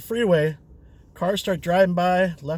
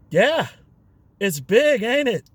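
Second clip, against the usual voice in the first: wry tease; 4 semitones higher, 5 dB louder, slower than usual. Retold or imitated. Teasing reply to drunk.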